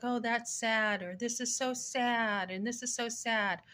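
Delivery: a touch of sarcastic fake sympathy; mock fake sadness. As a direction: parody someone faking being sad. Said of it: "she'll act like she's sad".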